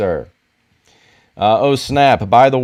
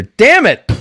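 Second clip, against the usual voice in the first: excited outburst; 10 semitones higher, 8 dB louder than usual. Real, not acted. Excited outburst over action figure.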